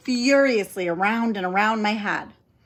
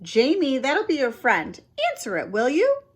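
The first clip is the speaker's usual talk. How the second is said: calling from kitchen; 6 semitones higher than usual. Acted. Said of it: "asked Aunt Nora from the kitchen".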